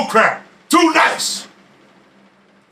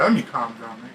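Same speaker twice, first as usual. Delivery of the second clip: much softer, lower, winding himself back down; calming down; 13 semitones lower, 10 dB quieter than usual. Real, not acted. Boxing vlogger reining in his own excitement, much quieter. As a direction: pull way back after the rant. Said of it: "Getting all excited over there, sweating".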